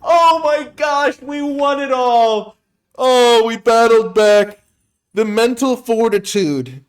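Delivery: loud, high, drawn-out cheering; victory yell. Real, not acted. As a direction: scream with joy after winning. Just won the game.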